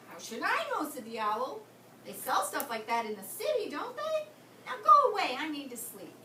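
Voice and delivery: grumpy owl. Acted. Grumpy owl dismisses Katie.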